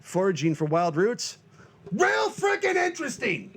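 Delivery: high mocking sarcasm; sarcastic skeptic. Host voices a listener doubting foraging, sarcastic. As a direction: scoff at the idea. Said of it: "you think".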